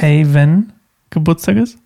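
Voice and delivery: playful mock echo, rising end; teasing imitation. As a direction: echo her words back teasingly. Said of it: "Du hast grad, hey". (neckend nachgeäfft)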